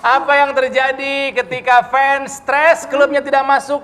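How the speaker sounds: football commentator. Pretend. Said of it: "ala-ala komentator bola".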